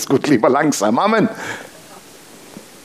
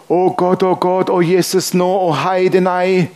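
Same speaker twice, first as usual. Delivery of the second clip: higher, mock-flustered wailing in a light Swabian lilt; panicked Swabian mother; 4 semitones higher, slower than usual. Son imitates his mother freaking out on the phone, mock panic. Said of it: "die ist total ausgeflippt".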